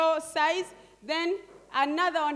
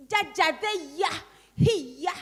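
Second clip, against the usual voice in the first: imitating her grandson; 3 semitones higher, 3 dB louder, slower than usual. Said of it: "So he can say".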